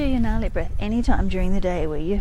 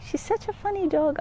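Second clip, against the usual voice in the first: delighted; 10 semitones higher than usual. Real, not acted. Delighted by copying dog.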